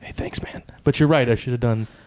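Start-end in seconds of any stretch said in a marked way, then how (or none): 0.0-0.6 barely voiced, soft, breathy whisper. Retelling the line slipped into the film: imitating own whisper. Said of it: "I just sort of whispered".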